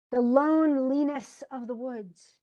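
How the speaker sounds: "loneliness" split as LONE LEE-ness; misplaced stress on loneliness in the phrase; odd stress. Shown as a demonstration. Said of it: "it doesn't make any sense".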